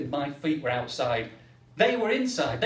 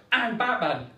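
put-on kid shouting; 5 semitones higher, 4 dB louder than usual. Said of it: "he shouted".

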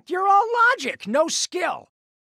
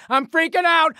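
rising panic; 4 semitones higher, 3 dB louder than usual. Acted. Second, escalating panic line.

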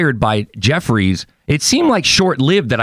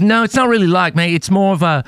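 imitated New Zealand accent, higher pitch; Andrew Jeffries; 7 semitones higher than usual. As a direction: protest as a mock New Zealander. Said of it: "and he goes".

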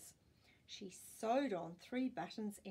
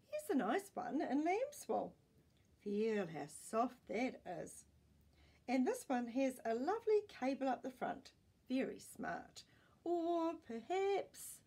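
higher, louder showy sales patter; salesman pitch; 4 semitones higher, 5 dB louder than usual. Acted. Salesman showing off expensive cardigans, higher and showy. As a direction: sell the fancy knits grandly.

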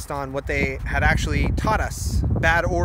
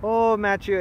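higher-pitched Dutch-accented grandmother, lightly imitated; a hint of Dutch accent, pitched up; grandmother's Dutch accent; 5 semitones higher than usual. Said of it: "she has an accent".

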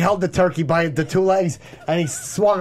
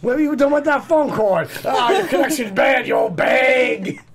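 hammed-up laughing yell at the old lady; mock yell; 4 semitones higher than usual. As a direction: taunt her with a cackle. Acting out the strangling daughter.

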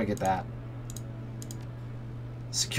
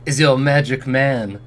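slow showman flourish, lightly put on; cheerful elf salesman; 4 dB louder, slower than usual. Elf presents himself as magic man, lightly voiced showman. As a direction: draw it out like a proud pitchman. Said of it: "he gestures at himself with a dramatic flourish".

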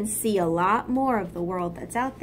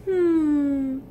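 higher, drowsy hum; a dozing ant's contented hum; sleepy murmured hum; 6 semitones higher, 4 dB louder than usual. Acted. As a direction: murmur half asleep. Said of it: "Bart murmured".

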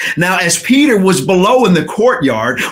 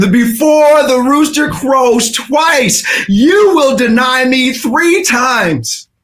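slow, high, proclaimed; Jesus' warning, preached out; solemn prophecy; 5 semitones higher, slower than usual. Acted. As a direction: pronounce it weightily. Jesus' words recalled.

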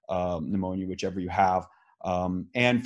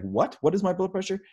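retold disbelief; 10 semitones higher than usual. Retold shock at blood pressure.

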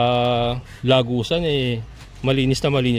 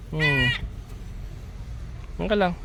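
ordinary talk, nothing marked

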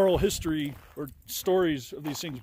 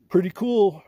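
excited; 7 dB louder, slower than usual. Real, not acted. Hiker admiring volcanic boulders.

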